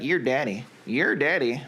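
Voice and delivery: folksy Southern "your daddy"; demonstrated Southern US accent. Shown as a demonstration. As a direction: say it like you're really Southern. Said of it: "if you were really Southern, you'd be like".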